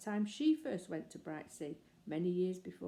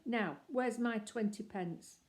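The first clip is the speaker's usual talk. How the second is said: slow demand; 4 semitones higher, slower than usual. Acted. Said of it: "said the man nastily".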